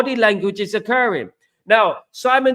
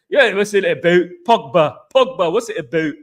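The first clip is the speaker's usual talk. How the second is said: put-on Scottish accent. Fan asked for it, rough Scottish accent impression. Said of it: "You should sound like Souness Scottish accent".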